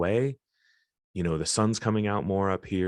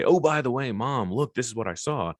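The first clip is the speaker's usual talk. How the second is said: higher-pitched offhand aside, as if to Mom; mock casual announcement; 5 semitones higher than usual. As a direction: toss it out like unprompted news. Acts out unprompted casual announcement to Mom.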